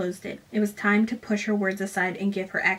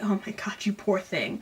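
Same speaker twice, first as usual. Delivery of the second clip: put-on soft whispered pity to a baby; mock whisper; 5 dB quieter than usual. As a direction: breathe it like cooing over a crying baby. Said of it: "she hears a baby ... is like".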